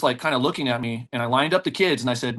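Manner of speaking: ordinary talk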